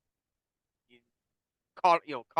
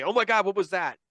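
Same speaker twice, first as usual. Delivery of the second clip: higher and louder, a hammed-up gasp of awe; mock ghost-hunter excitement; 6 semitones higher, 6 dB louder than usual. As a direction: play the gullible ghost hunter. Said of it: "you could basically say".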